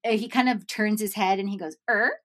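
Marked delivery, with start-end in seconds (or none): 1.9-2.1 Scooby-Doo huh. Retold or imitated. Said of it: "that Scooby-Doo look".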